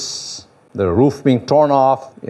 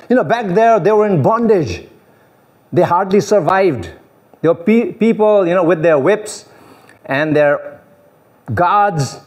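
raised whiny complaint, lightly voiced; mock grumbling; 5 semitones higher than usual. Preacher imitating Israelites complaining to Moses, raised and whiny. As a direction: play the ungrateful people griping.

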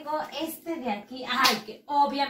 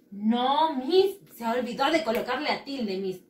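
lightly voiced protesting child, louder at the start; correcting pupil; 3 dB louder than usual. Pupil telling Miss the accent mark is missing, protesting. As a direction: play a pupil catching the teacher out.

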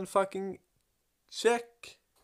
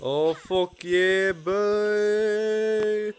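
hype shout; 3 semitones higher, 6 dB louder, much slower than usual. Real, not acted. Gamer hypes up a monster kill, yelling. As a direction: stretch the win, then scream it.

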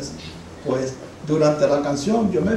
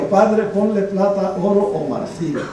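preacher's prayer; 4 semitones higher, 4 dB louder, slower than usual. Retold or imitated. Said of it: "nunca había oído a nadie hablar así".

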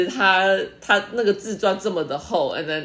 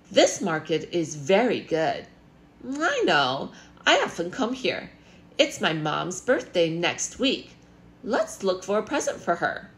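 textbook dialogue reading, two voices; reading a dialogue aloud; 3 semitones higher than usual. Acted. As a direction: read the lines as a lesson model.

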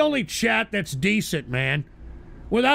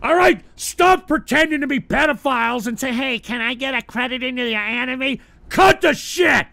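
angry yelling. Real, not acted. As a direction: shout the trolls down, fed up. Yelling at trolls in chat.

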